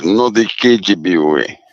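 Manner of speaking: playful mock Russian accent; light Russian accent. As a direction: toss off the KGB line in a mock Russian accent. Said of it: "I like your Russian accent there".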